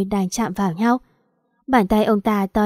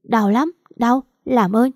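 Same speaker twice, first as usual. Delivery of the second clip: pained pleading; 2 semitones higher, slower than usual. Acted. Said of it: "tôi nắm chặt gối đau đớn".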